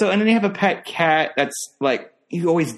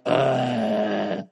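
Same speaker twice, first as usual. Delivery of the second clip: exasperated groan; 5 semitones lower, 3 dB quieter than usual. Retold or imitated. Exasperated at cat chewing his bag.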